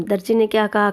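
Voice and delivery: usual speaking voice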